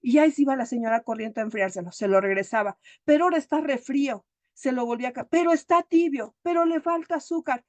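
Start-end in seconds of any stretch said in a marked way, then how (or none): 3.1-4.2 higher, fussy acted protest; mock complaint. Husband rejecting the coffee his wife brought, fussy. Marido quejándose del café. 5.3-7.6 picky whine, pitched up; mock complaint. Husband finding fault with every coffee, mock-fussy. Marido quejándose del café.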